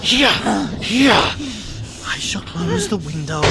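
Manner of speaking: high, loud, desperate pleading; panicked cry. Acted. Frightened friend screaming at Roderick not to look. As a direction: yell in terror to stop him.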